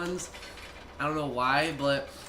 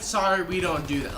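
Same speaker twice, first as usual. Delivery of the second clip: nice tone; 3 dB louder than usual. Retold or imitated. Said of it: "she went to a nice tone to her".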